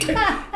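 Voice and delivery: a sudden loud, high burst of real laughter. Real, not acted. Laughing loudly at the CEO's joke about outrunning.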